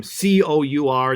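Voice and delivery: C O U R said letter by letter; name the letters of C O U R one by one; spelled out. Shown as a demonstration. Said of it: "that's pronounced, uh, Core".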